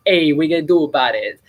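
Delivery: quick, lightly put-on Italian accent; playful imitation Italian-American accent. Retelling his impression to friends at work, in a light Italian accent. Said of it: "like, Italian impression".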